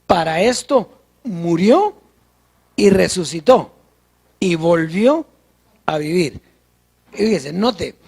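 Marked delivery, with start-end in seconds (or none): 0.0-6.4 scripture reading. Acted.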